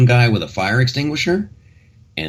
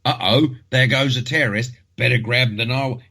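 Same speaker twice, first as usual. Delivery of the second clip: mock heroic bystander; 4 semitones higher than usual. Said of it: "who is like".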